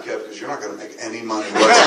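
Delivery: teasing Affleck quote. Retold or imitated. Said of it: "he'd be like".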